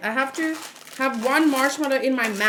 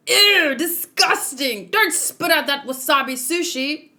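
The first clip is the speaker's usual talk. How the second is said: mock disgust; 4 semitones higher than usual. Voicing a manga onlooker, hammed-up disgust. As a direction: ham up a grossed-out onlooker. Reading manga panels aloud in voices.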